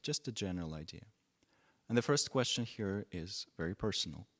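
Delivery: measured phrases with long pauses between; unhurried meditation teacher, pausing often; guided meditation. Real, not acted. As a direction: guide them gently into stillness, leaving space after each phrase.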